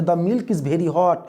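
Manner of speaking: slow, clear answer read; slow model answer. Shown as a demonstration. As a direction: read the answer slowly for the class. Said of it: "तो the milk". (धीमा, साफ़ उत्तर)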